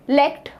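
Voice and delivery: "लेक्ट" alone as one syllable; isolated last syllable. Shown as a demonstration. Teacher asking what the last sound is, isolated syllable. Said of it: "last वाला sound क्या है?".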